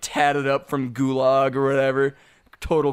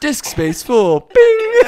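computer voice; 9 semitones higher, 8 dB louder, much slower than usual. Pretend. Playing a full computer brain.

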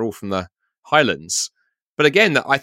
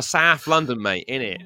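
broad South London, first words pitched up; South London accent; slower than usual. Shown as a demonstration. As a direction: put on matey South London slang accent. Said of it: "where I come from".

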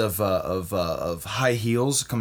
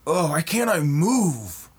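waking confused; 4 semitones higher than usual. Acted. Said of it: "he's just like".

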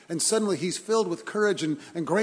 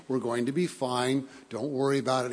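calm voice; 2 semitones lower than usual. Retold or imitated. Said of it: "said in a calm voice".

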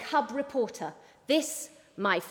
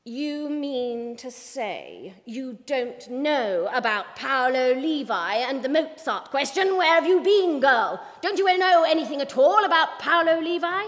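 louder, incredulous boss voice; exasperated boss; 4 dB louder than usual. Acted. Boss scolding the ignorant reporter, exasperated. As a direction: scold her for not knowing.

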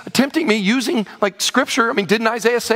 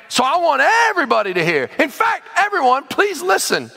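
higher, emphatic call for attention; public proclamation; 5 semitones higher than usual. Acted. Envoy calling to everyone on the wall, emphatic. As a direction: address the whole crowd.

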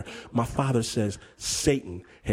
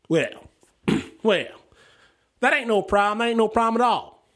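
Kriegel's voice; 6 semitones higher than usual. Retold or imitated. Kriegel answers the nervous dad.

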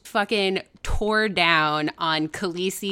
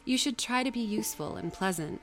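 softer, gently admonishing; no harsh voice; 2 semitones higher, 5 dB quieter than usual. Acted. Nursemaid advising Jane how to keep her home, gently. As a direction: counsel the child softly, without scolding. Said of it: "in no harsh voice".

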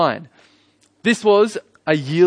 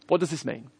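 "What does this mean" dropped much softer and quicker; puzzled crowd; 8 dB quieter than usual. Retold or imitated. Crowd questioning Pentecost, "What does this mean" softly wondering. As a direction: repeat "What does this mean" as a quiet aside. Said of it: "can't blame the crowd who says".

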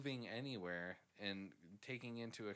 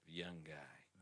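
mocking creepy tone; 6 semitones lower, 9 dB quieter than usual. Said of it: "how you said it".

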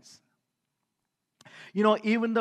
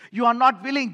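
louder, pressing on not; emphatic rebuke; 2 semitones higher, 5 dB louder, faster than usual. Real, not acted. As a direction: drive the words home to the listeners. Preacher confronts the unwilling.

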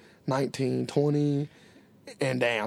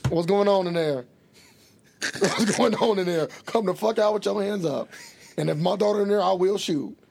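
mock stern challenge, raised a little in pitch; acted armed confrontation; 4 semitones higher than usual. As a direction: play at calling out an intruder. Acting out armed father at window.

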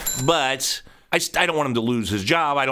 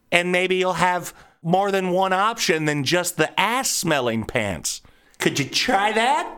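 sarcastic retort; 4 semitones higher, slower than usual. Pretend. Imagined sarcastic reply to son.

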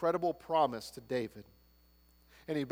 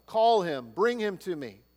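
louder, higher repeat of the order; insistent command; 3 semitones higher, 4 dB louder than usual. Acted. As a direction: press the order harder the second time. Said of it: "repeated command, second take louder".

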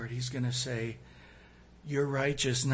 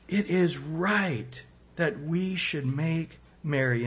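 slow reading; slower than usual. Shown as a demonstration. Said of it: "In Luke fifteen thirty-two".

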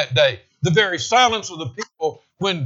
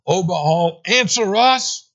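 desperate cry to Baal; 4 semitones higher, 3 dB louder, slower than usual. Retold or imitated. Prophets of Baal calling out.

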